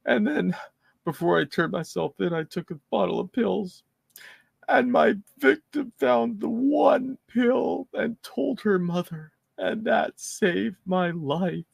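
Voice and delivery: high, slow mocking imitation; mock whiny offender. Host mimics the offender's courtroom story mockingly. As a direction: quote him in a high drawn-out sneer. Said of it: "And he says".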